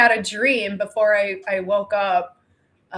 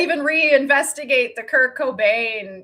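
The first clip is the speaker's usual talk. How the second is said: mocking villain; 3 semitones higher, 6 dB louder than usual. Mocking cult voice.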